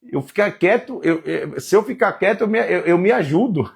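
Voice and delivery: high, stammering Job; a lost man fumbling for words; flustered Job. Acted. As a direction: Job speechless before God. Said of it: "Jó fala".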